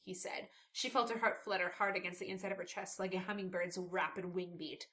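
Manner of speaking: soft, low narration; subdued audiobook-like reading; story narration. A narrator's reading. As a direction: read the novel passage in a hushed, measured way. Reads book excerpt aloud.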